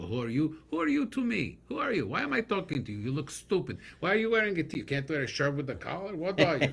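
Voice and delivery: loud, high New York family voice, pitch jumping up; New York accent. Retold or imitated. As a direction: imitate a brash New York relative scolding. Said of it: "So they either talked like this".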